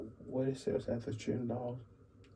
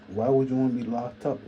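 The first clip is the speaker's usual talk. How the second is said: louder, raised voice, questioning; loud rhetorical question; 4 semitones higher, 7 dB louder than usual. Real, not acted. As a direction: push it out loud.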